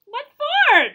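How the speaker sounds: loud, high defiant shout. A narrator's reading. Trudy shouting back at her trainer from the water, loud and defiant. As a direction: throw it back, refusing to quit. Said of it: "Trudy shouted".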